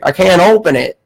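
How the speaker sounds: lightly imitated old Southern caller; mock Southern complaint; Southern accent. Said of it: "he had a southern accent".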